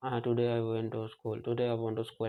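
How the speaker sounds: flat, unstressed, slow "today I went to school"; no emphasis. Shown as a demonstration. Teacher demonstrating staccato speech lacking emphasis, flat and slow. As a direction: say it with no word stressed. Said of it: "ऐसे बोलेगा".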